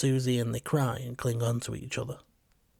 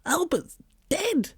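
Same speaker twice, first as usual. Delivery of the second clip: much higher, slow drawn-out whine; dog whining a second time, higher; slower than usual. A narrator's reading. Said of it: "I whine at her".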